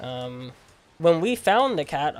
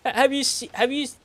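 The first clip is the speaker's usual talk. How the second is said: much higher, halting parrot-like neighbor; mocking the neighbor's voice; 10 semitones higher, 3 dB louder than usual. Teen mimics the neighbor stopping them at the street, high parrot-like voice. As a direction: stammer it high like the old neighbor. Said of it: "the way he talks".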